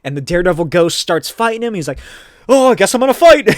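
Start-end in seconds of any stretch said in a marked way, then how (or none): 2.5-3.5 high, loud, hurried mock wail; mock distraught resolve. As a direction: blurt it out as the overwrought hero. Daredevil reluctantly starts fighting, acted.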